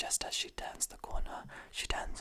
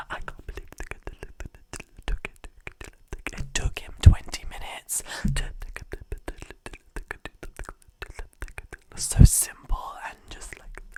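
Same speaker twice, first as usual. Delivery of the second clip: whispered mock outburst, pitched up; mocking loud complaint; 17 dB louder than usual. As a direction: pitch up to mimic her complaining. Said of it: "she loudly says".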